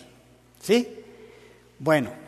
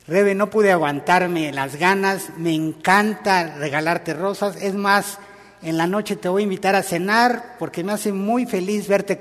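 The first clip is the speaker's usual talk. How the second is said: louder, glad, loving answer; eager loving reply; 3 semitones higher, 4 dB louder than usual. Shown as a demonstration. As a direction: sound delighted to give roses. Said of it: "la frase que yo contesté". (respuesta cariñosa y entusiasta)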